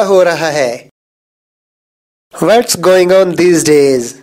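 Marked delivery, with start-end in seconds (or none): 2.3-4.1 slow, careful English sentence; slow model reading. Shown as a demonstration. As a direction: say each word slowly and clearly. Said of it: "teacher says sentence slowly".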